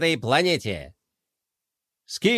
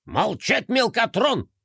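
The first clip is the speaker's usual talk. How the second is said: mild bark; 5 semitones higher, slower than usual. Acted. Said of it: "рявкнул генерал".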